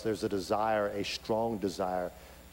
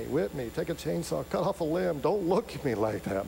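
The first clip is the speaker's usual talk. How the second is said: desperate pleading; 5 semitones higher than usual. Acted. Child begging mom for punishment instead.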